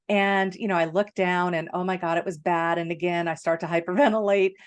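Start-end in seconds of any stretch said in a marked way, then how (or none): 3.3-4.5 amused giggle mid-sentence; laughing while telling. Real, not acted. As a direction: chuckle breaks into the word. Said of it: "I'm, like, cracking up at the same time".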